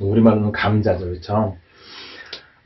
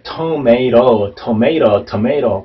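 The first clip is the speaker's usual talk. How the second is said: TOMATO drawn out slowly at first, beat on "MAY"; "tomato" repeated to show the stressed MAY, last T tapped; stress on second syllable; much slower than usual. Shown as a demonstration. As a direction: lean on the middle of "tomato": tuh-MAY-ro. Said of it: "강세가 있지 않습니까?".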